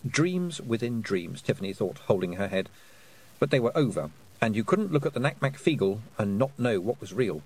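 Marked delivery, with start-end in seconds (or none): none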